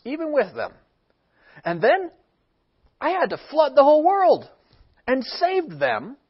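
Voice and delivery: fed-up God, building to done; exasperated God. Acted. God scolding humanity for wasting chances, exasperated and rising.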